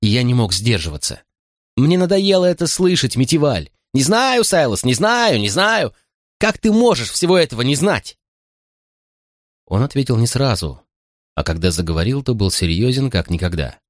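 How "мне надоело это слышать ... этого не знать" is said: mock his answer back at him in a fed-up shout; frustrated yelling at a friend. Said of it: "закричал я".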